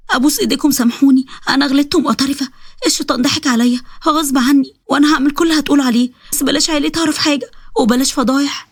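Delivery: mildly desperate begging; pleading. Acted. Wife begging husband and mother-in-law for forgiveness, understated pleading.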